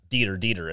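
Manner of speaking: deter misread as Dieter, DEE-ter; mispronounced deter. Retold or imitated. Misreading a word cold-reading a script. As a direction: read Dieter, Dieter aloud wrong. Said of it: "I kept on saying Dieter".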